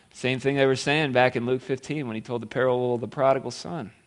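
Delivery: ordinary talk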